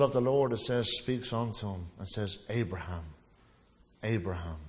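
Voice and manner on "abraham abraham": intimate warmth. Retold or imitated. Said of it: "There's almost this intimate warmness there".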